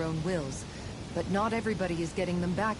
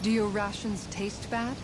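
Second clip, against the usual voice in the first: slow and gentle. Acted. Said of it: "Be slow and gentle with him".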